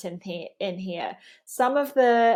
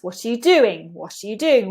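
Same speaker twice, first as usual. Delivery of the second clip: slight stress on "What", squashed "are you", strong "doing"; "What are you doing" in strong-weak English rhythm; waxing and waning stress; 4 dB louder than usual. Shown as a demonstration. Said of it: "a tiny bit of stress on the what".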